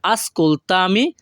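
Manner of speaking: "ascoltami" slowly, as one joined word; teacher's slow, joined "ascoltami"; joined-up pronunciation. Shown as a demonstration. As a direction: run ascolta and mi together in "ascoltami", drawn out. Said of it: "এটা যদি আমরা একসাথে বলি".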